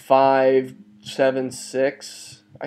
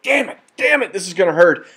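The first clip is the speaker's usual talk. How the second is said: much higher mock panic; bracing for the worst, hammed-up dread; a comic yelp of despair; dismayed outburst; 5 semitones higher than usual. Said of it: "And I'm like".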